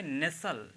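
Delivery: नेसल with no T after the S; silent T. Shown as a demonstration. Teacher reading out the word, नेसल with silent T. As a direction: say नेसल, leaving the T out. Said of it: "ये टी यहाँ पे silent रहेगा".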